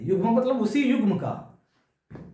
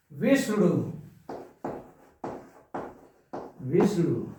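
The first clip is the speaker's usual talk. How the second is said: विष्णु with weight on the opening विष्; teacher's demo of stressed first syllable in विष्णु; 2 semitones lower than usual. Shown as a demonstration. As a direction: lean on विष्, let the ending of विष्णु fall. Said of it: "यहाँ वह बल दिया जा रहा है".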